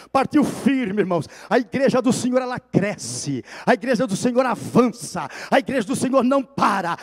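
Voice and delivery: mais alto, clamando as frases; pregação fervorosa. Acted. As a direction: prega com força ao encerrar. Encerramento pregando com força. (pregação em alta voz para a igreja)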